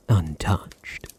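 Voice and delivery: a whispered single word; hushed whisper of reassurance. Acted. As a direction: breathe it out close. Confiding about the sister.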